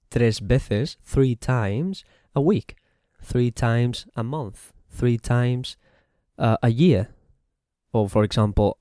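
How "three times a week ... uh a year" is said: slow model phrase. Shown as a demonstration. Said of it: "we say the number".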